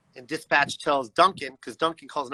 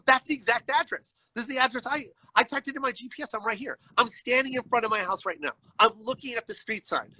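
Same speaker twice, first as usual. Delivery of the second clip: exasperated insistence; 5 semitones higher than usual. Retold or imitated. Insisting to dispatch on the address.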